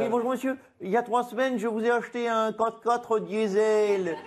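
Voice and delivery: lightly voiced Ségolène Royal; a hint of Royal's sweet voice; Ségolène Royal impression. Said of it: "Bonjour Ségolène Royal".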